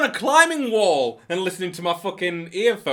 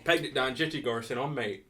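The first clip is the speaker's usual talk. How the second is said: Nottingham slang; 5 semitones lower, 8 dB quieter than usual. Shown as a demonstration. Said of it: "Go in sections".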